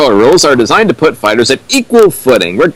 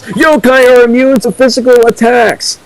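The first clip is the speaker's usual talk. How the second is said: excited exclamation; 12 semitones higher than usual. Acted. Riffer correcting the fic's logic, excitedly high and gleeful. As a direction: pitch jumps way up, gleeful know-it-all outburst.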